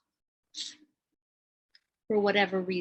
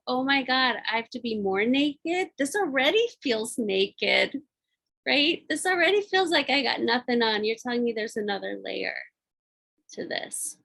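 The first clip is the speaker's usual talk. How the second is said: mock panic; 3 semitones higher than usual. Retelling fear of more vulnerability.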